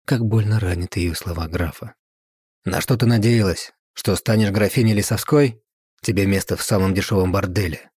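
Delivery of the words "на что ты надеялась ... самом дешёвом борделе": hissed. Acted. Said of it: "прошипел Владимир".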